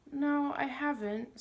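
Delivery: high, loud and slow protest; hurt boy denying it hotly; indignant. A narrator's reading. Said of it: "said Diggory indignantly".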